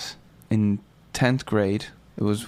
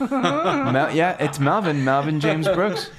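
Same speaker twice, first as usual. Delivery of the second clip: silly high voice; 6 semitones higher than usual. Pretend. Answers in a silly voice.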